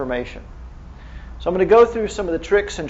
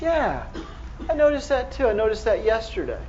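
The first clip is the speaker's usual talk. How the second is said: higher-voiced imitation of an elderly patient; imitating old French lady; 5 semitones higher, 3 dB quieter than usual. Doctor mimics elderly French patient answering him, higher imitation. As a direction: play the casual old lady, voice lifted high. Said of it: "She goes".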